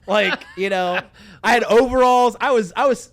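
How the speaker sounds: put-on a boy showing off his old South Carolina twang; South Carolina accent. Shown as a demonstration. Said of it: "and sounded like this".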